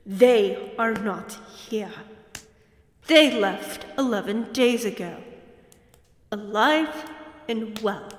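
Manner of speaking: loud, sharp and fast; growing fury aimed at the hunter; angry countess. Acted. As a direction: lash out at the hunter.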